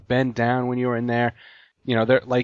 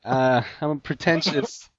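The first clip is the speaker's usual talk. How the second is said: mock nonchalant slacker; 3 semitones higher than usual. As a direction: play up a pretentious, too-cool guy. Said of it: "his reaction to all this is just like".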